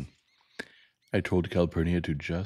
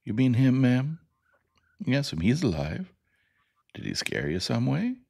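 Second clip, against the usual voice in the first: put-on gentle boy checking on his teacher; higher, questioning child voice; gently, higher-voiced boy; 8 semitones higher, 4 dB louder than usual. A narrator's reading. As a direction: ask it kindly, pitched up. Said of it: "he said gently".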